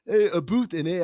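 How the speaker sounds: put-on a quick stereotype Canadian accent; mock Canadian accent. Host ruling out one kind of Canadian, mock Canadian accent. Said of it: "that kind of Canadian".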